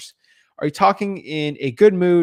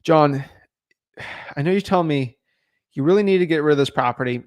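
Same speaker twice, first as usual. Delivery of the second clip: empathetic offer. Acted. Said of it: "they talk about it and say".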